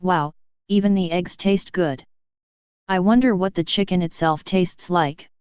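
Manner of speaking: muffled, mouth full of food. Acted. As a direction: mutter through a full mouth. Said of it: "muttering in a muffled voice".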